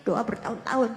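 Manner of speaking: rushed, fast sulky complaint; mock protest to God. Believer protesting to God, fast sulky grumble. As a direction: grumble at God like a spoiled child. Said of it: "gondok gitu kan, protes".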